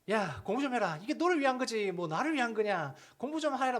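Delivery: loud, high mock nagging; nagging parent. Parent nagging their child to study, loud and insistent. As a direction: scold the kid to study. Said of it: "이런 이야기를 하시지 않습니까".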